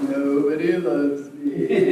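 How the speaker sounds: very slow, loud mournful drone; sluggish, self-pitying cartoon donkey; Eeyore. Shown as a demonstration. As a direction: drag out every word in gloom. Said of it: "But Eeyore is like".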